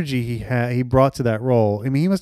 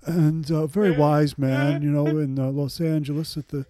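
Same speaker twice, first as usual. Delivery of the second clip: Mamet voice. Retold or imitated. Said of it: "You got a really good Mamet there".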